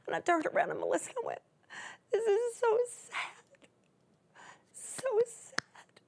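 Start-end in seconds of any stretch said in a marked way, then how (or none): 2.1-6.0 retold sad words.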